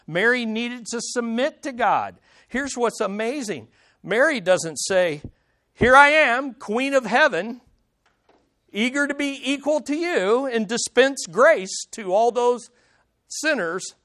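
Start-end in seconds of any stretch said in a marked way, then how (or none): 5.7-13.9 loud, pompous mock proclamation; mock grandeur. Preacher mocking a proud Queen of Heaven claim, pompous and loud. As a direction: puff it up like a self-crowned queen. Mocking an imagined boastful Mary.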